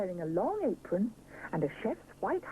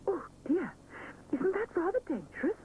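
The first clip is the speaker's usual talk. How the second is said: worried cry; 9 semitones higher than usual. Acted. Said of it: "cries Missus Bear".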